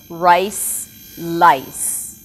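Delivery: rice with a clear R, lice with a clear L; minimal pair demo. Shown as a demonstration. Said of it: "I'll say some words".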